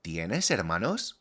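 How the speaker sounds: "¿tienes hermanos?" slow, with a rising question tune; question intonation. Shown as a demonstration. Teacher modelling a question for learners, slow rising tune. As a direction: lift the pitch as a question, unhurried. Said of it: "change the intonation of the question".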